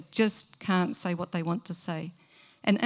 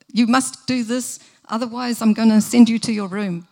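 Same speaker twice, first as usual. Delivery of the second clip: mock threat; 3 semitones higher, 7 dB louder than usual. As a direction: lay down the law to the child. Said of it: "Don't threaten".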